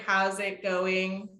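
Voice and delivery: slow, lightly flattened imitation; monotone imitation. Shown as a demonstration. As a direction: mimic the flat reading, a little slow. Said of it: "Very monotone".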